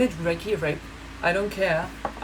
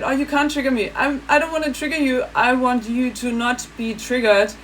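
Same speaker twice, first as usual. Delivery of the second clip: imitating German woman; 4 semitones higher than usual. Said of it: "And then one said".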